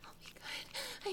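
breathless high whisper, begging; a high, hushed promise; whispered plea. Acted. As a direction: plead in a frightened whisper. Whispered plea, then cried.

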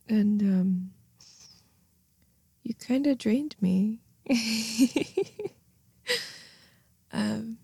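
soft drowsy afterglow; sleepy soft murmur. Acted. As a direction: murmur it contentedly.

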